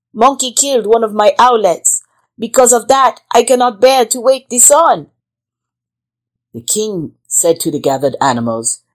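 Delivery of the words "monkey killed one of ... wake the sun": grieving owl. Acted. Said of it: "Mother Owl said".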